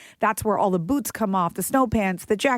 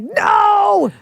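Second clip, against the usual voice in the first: much higher, loud sudden yell; instinctive shout; 11 semitones higher, 7 dB louder than usual. Retold or imitated. Mom's instinct kicks in at trash-eating daughter, shouted no. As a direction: bark the no at her. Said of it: "that instinct kicked in and I was like".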